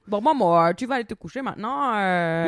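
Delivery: muddled accent imitation, vaguely African; badly faked foreign accent in French; botched hybrid accent. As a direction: attempt an accent and land between several. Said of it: "Là, c'est un accent africain mal fait".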